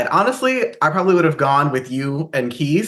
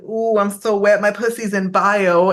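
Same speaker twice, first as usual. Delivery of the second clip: higher, drawn-out mock moan; mock horny Marcus; 4 semitones higher than usual. Mocking Marcus's over-the-top phone-sex call, hammed-up arousal. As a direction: play up the steamy phone-sex gusto. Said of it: "Marcus was literally over there just like".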